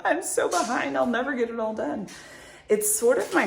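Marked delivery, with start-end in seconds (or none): 0.1-2.1 high, hurried mock panic; pitched-up, frazzled self-quote; mock freak-out. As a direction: act out a little overwhelmed meltdown. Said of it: "this whack attack moment where you go".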